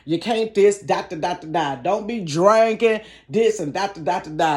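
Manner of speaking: preachy scolding singsong; mock church scolding. Comic mocking a preachy churchgoer who scolds drinking. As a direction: wag a finger and preach at them.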